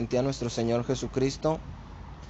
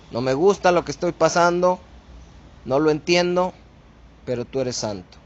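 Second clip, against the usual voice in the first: reverent prayer. Shown as a demonstration. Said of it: "La actitud correcta siempre ante Dios".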